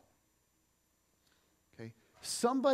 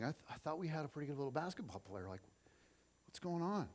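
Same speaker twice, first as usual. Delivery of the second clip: echoing memory; 6 dB quieter, faster than usual. Retold or imitated. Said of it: "hearing the words echoing".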